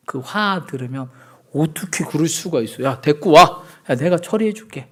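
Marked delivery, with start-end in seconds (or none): 1.5-4.9 mock gangster-style indignation; secondhand outrage. Friend offering to deal with the offender, lightly acted outrage. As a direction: rise to a loud summons, like a hothead taking over. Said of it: "그럼 나도 화나요".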